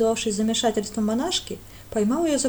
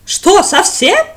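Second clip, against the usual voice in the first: much higher, louder horror; aghast at the idea; shocked cry; horrified; 10 semitones higher, 14 dB louder, much slower than usual. Acted. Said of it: "ужаснулся горец".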